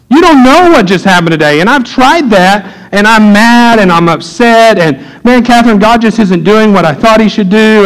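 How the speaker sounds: mildly hammed-up complaining; mock whining. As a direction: imitate yourself griping to your wife. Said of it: "I'll be whining and I'll be complaining".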